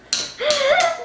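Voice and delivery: high, loud burst of laughter; breaking into a real laugh. Real, not acted. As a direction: crack up laughing. Breaks up admitting it is joking.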